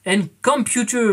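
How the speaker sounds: French speaker's mock-proud English accent; lightly hammed-up English pronunciation; self-mocking English accent on an acronym. Shown as a demonstration. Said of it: "Mon accent anglais est toujours merveilleux".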